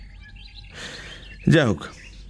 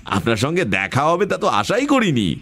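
eager greeting. Acted. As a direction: greet her with gushing, stretched-out eagerness. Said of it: "খুব আগ্রহের সঙ্গে".

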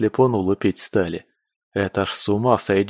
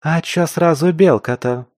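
higher, louder huffy comeback; snorting retort; 7 semitones higher, 4 dB louder than usual. Acted. Кваз to her partner, huffy snort. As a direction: snort back, offended. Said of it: "фыркнула Кваз".

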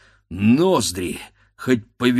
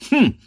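startled hum; 8 dB louder than usual. A narrator's reading. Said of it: "сказал дед и сам перепугался".

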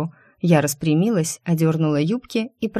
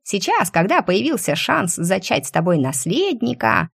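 dreamy squirrel. Acted. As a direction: dreamily savour the idea. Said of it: "мечтательно закончила белка".

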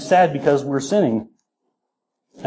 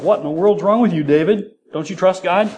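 higher, mock-scolding question; incredulous challenge; 4 semitones higher than usual. Preacher imagines someone challenging David's faith, incredulous. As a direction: ask it quickly, in raised disbelief.

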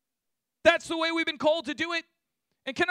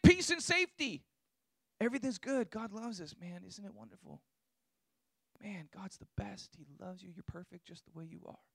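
softer, lightly voiced smooth false prophet; hint of an easygoing false prophet, softer; mock false prophets; 10 semitones lower, 9 dB quieter than usual. Preacher imitating Jeremiah's false prophets, lightly voiced and softer. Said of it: "many prophets saying".

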